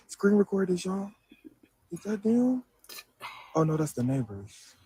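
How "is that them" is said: whispering. Real, not acted. Whispered question near police.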